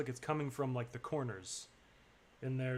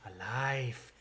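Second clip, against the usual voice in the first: greedy acolyte; much slower than usual. Acted. Acolyte savors the leech.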